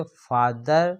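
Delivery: फादर with a stop after फा, then दर; split into syllables. Shown as a demonstration. Teacher shows students where फादर breaks, split into two syllables. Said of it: "तो फा पे रुकते हैं, फिर दर बोलाता है".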